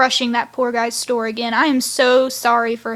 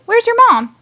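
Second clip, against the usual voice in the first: curious question; 10 semitones higher, 6 dB louder than usual. Retold or imitated. Chase quizzing Six at campfire.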